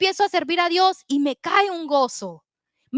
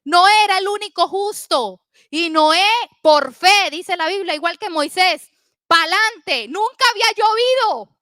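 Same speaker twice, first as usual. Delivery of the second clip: punchy sermon delivery with loud key words; forceful storytelling from the pulpit; emphatic preaching; 6 dB louder than usual. Real, not acted. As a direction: preach it out to the congregation.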